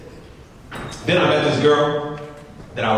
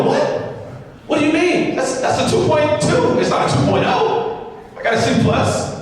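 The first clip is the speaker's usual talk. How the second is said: high-pitched, indignant protest; acting out a bewildered self-defense; baffled defensiveness; 11 semitones higher than usual. Student defends his two point two to his friend, baffled.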